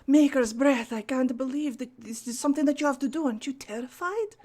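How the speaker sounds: a touch of theatrical awe; acted astonishment. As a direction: marvel at her to distract her. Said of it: "It would be more like".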